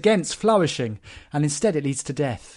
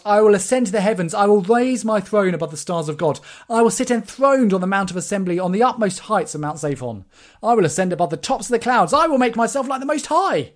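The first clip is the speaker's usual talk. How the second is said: higher and louder arrogant boast that peaks at the end; boastful king; 5 semitones higher, 3 dB louder than usual. Acted. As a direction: puff up like a proud king claiming the heavens. Quoting the boasting Assyrian king.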